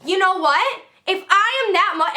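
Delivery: high, heated retort; yelling. Retold or imitated. Pissed student confronting her teacher, mock yelling. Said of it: "and I'm yelling".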